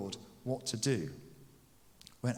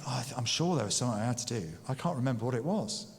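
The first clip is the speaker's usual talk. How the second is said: flustered muttering; much faster than usual. Retold or imitated. Forgetful hurried thought.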